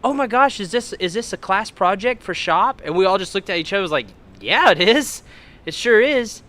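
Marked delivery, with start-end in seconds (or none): 0.0-2.8 high, loud gushing woman; naive excitement. Retold or imitated. Woman asking teens about a shop project, naively excited. 4.4-6.4 high, loud put-on enthusiasm; eager bluffing. Teens bluffing the car's owner, eagerly excited.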